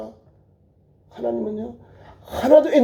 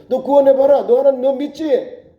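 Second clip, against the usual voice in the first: high-pitched mocking challenge; taunting; 4 semitones higher than usual. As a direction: taunt the believer as a scoffer would. Voicing mockers of the believer. (높은 목소리로 조롱하듯)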